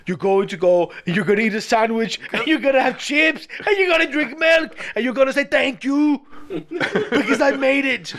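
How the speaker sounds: mock-bossy father, laughing at the end; aggressive Arnold. Host imitating Arnold's aggressive dad lines, building up. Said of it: "He always gets really aggressive".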